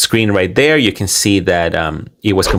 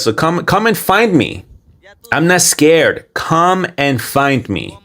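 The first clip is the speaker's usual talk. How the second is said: higher-pitched mock dare, then slowing on the last line; half-hearted angry taunt, pitched up; imitating an angry dare; 6 semitones higher than usual. Narrator mimicking the man daring his haters to find him, mock angry. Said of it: "He's so angry".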